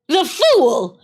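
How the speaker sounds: high, loud triumphant cry; witch's cry. Acted. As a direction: fling it out as a gloating witch. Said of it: "she cried".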